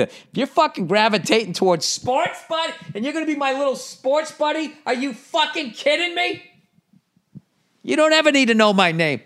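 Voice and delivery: put-on high, excited baby talk to his son. Dad talking to his baby son in a high, excited baby voice. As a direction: coo at the little sports buddy, way up high.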